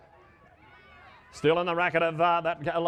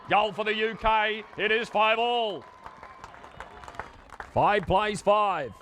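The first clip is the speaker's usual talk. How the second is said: building goal excitement; 3 semitones higher than usual. Real, not acted. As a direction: call the goal like the crowd is on its feet. Goal scored, commentator builds excitedly.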